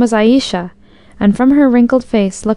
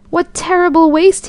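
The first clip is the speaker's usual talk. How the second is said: outburst pitched far higher in horror; horrified exclamation; 8 semitones higher than usual. A narrator's reading. Horrified mayor exclaims as Aisha feeds grain to the calf. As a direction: cry out, appalled at the waste. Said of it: "he exclaimed".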